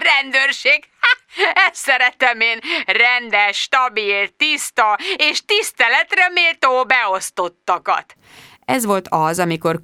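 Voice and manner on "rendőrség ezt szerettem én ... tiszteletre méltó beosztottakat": high, laughing mock praise; sarcastic boss. A narrator's reading. Boss mocking his respectable employee at the police, gleeful sarcasm. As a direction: stretch the praise out high and derisive.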